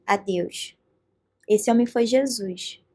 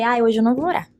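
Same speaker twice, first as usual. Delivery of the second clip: reluctant protest; 2 semitones lower, 5 dB louder than usual. Retold or imitated. Her own reluctant thought, retold.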